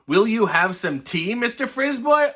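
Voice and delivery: a hint of a prim lady offering tea; mock polite hostess. Missus Doodlepunk offers tea sweetly.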